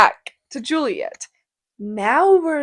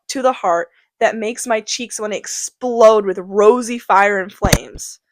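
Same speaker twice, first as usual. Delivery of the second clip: swooning Juliet. Acted. Juliet gushing about Romeo, mock swooning. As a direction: gush over the boy like a smitten teen, half-hammed. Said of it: "and then she goes".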